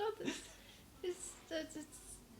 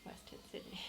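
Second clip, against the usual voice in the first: whispered aside; 9 dB quieter than usual. Real, not acted. Muttered punchline.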